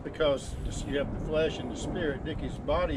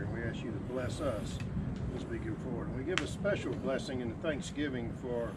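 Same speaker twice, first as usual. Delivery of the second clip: prayer; 3 semitones lower than usual. Real, not acted. Leads a prayer.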